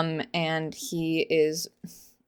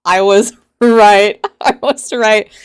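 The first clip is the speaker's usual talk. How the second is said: laughing gloat; 11 dB louder, slower than usual. Real, not acted. Gloating over prediction.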